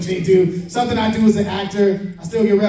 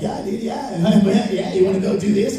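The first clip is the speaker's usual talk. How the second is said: surfer dude voice; 2 semitones higher than usual. Retold or imitated. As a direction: stretch it out like a chill surfer. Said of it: "the surfer dude voice".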